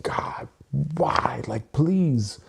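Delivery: a touch of desperate pleading to God; mimicking upset plea. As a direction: friend quoting a man begging God for help in his car, mildly pleading. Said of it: "he was like, so upset".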